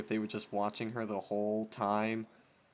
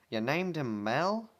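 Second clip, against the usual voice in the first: 1 incredulous; 4 semitones higher, 5 dB louder, slower than usual. Acted. Incredulous question.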